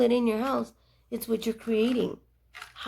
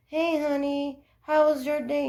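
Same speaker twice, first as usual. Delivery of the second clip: higher, louder cheery hello from the husband; cheerful husband greeting; 6 semitones higher, 5 dB louder than usual. Retold or imitated. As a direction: breeze in like a happy husband home from work. Husband greeting voiced in story.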